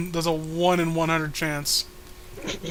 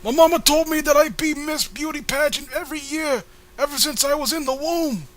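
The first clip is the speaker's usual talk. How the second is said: put-on squeaky girl voice; 4 semitones lower than usual. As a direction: keep up the chirpy girl act. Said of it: "what happened to your voice?".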